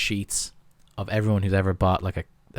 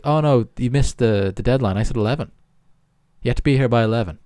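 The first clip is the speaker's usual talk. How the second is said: lightly acted mock dismay, a little raised; salesman feigning regret; 4 semitones higher, 5 dB louder than usual. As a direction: break fake bad news to a customer. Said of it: "he's like".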